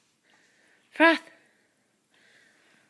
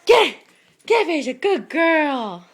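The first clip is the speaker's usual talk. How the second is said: loud urging; 3 semitones higher, 11 dB louder than usual. Real, not acted. Urging Phaedra the dog to get it, shouting. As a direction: cheer the dog on.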